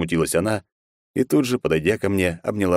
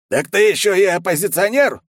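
higher and louder, outraged; old guard accusing the hero; indignant old man; 13 semitones higher, 5 dB louder than usual. A narrator's reading. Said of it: "возмутился Кана". (возмущённо, громко)

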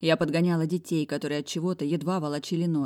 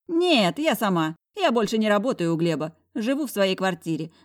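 put-on old woman voice; 4 semitones higher, 4 dB louder than usual. Old lady explains.

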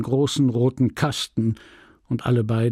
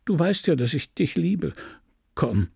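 pleading, soothing; 4 semitones higher than usual. Acted. Husband soothing his raging wife.

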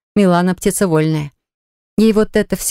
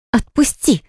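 sharp, high demand; 6 semitones higher, slower than usual. A narrator's reading. Woman held tight demands he release her, sharp cry. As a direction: order him to let go. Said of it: "тут же потребовала Милана".

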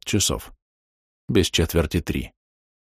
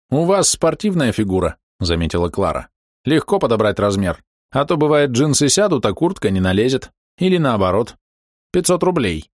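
higher, brisk market trader; saleswoman voice; 5 semitones higher than usual. Acted. Saleswoman sizing up buyer.

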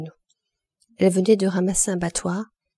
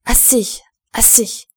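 louder, higher cry of "Assez! Assez!"; 4 semitones higher, 4 dB louder, slower than usual. A narrator's reading. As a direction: shout "Assez" again to stop her. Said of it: "le cri".

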